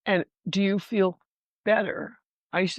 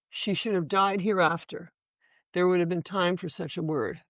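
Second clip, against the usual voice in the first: Shakespeare recitation. Acted. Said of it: "I'll read you my last reading".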